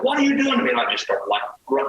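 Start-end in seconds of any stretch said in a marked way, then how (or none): 0.0-0.7 whiny retold plea. She whines getting up.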